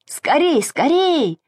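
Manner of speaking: high, urgent call to come quickly. A narrator's reading. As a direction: call out eagerly, pitched high. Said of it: "звал Саша". (зовёт высоким голосом, торопит)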